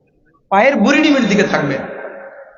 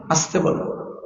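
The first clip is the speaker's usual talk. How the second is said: "আস্তে বলবো" whispered softly under the breath; 5 semitones lower, 8 dB quieter than usual. Shown as a demonstration. Preacher demonstrates the proper quiet amin, whispering. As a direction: show how quietly amin should be said.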